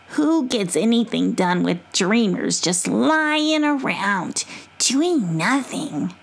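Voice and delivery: slow grumbling possum. Acted. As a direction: grumble about lazy dreamers. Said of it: "in her possum voice".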